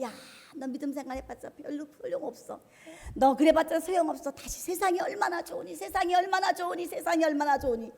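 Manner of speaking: acted-out sly persuasion; luring tempter. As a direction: tempt the believer away with repeated coaxing. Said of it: "유혹하고 우리를 끌어내립니다".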